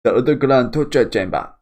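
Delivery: garbled, loud knife-in-mouth voice; mock obstructed speech, high and loud. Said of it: "speaking as if she's got a knife in her mouth".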